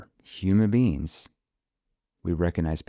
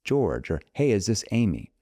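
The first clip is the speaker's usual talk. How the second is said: mistaken opener; 3 semitones higher than usual. Shown as a demonstration. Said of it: "they do this mistake".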